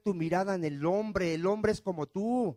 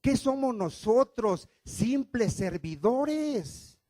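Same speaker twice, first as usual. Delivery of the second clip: apostle Paul's humble plea. Retold or imitated. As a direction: plead as a lowly servant. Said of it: "Dice el apóstol Pablo".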